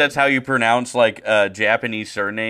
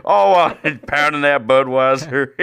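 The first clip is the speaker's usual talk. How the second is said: mock old broadcaster; 3 semitones higher than usual. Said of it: "I'm Mike Shannon".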